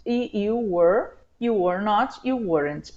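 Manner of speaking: ordinary talk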